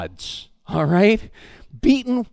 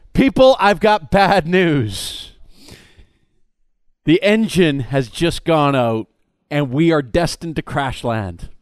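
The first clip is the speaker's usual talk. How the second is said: grave pilot; 5 semitones lower than usual. Acted. Pilot announces crash to passengers.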